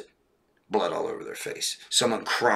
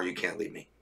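possessive plea; 4 semitones lower, 8 dB quieter than usual. Retold or imitated. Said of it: "they're obsessed on you".

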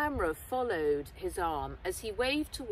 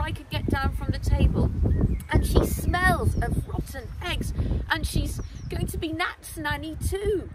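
put-on higher, louder aggrieved boy's voice; indignant boy; 7 semitones higher, 7 dB louder than usual. Henry telling Wen about the horrible nanny, aggrieved boy. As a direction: complain hotly like a hard-done-by kid.

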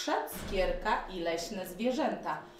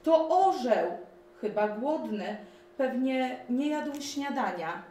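higher, louder alarmed warning; 5 semitones higher, 6 dB louder than usual. A narrator's reading. Squirrel warning of a hungry eagle, alarmed. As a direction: warn of the eagle.

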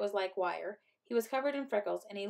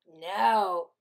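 loud, disgusted no; emphatic refusal; 9 dB louder than usual. A narrator's reading. Brother asked whether he likes rhubarb, loud emphatic refusal. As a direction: burst out with the refusal.

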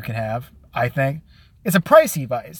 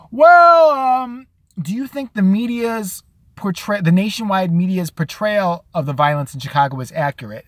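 higher, slow prim surveyor voice; mocking the survey lady's careful question; 6 semitones higher, 5 dB louder than usual. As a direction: ham up a fussy caller, drawn out. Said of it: "And then they're like".

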